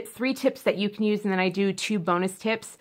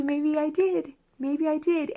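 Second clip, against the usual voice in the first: tag; 7 semitones higher than usual. Acted. Acted coy admission after exclamation.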